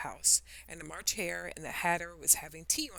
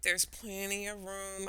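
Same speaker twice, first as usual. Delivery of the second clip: indignant; 2 semitones higher, 3 dB quieter, slower than usual. Acted. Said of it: "Alice said indignantly".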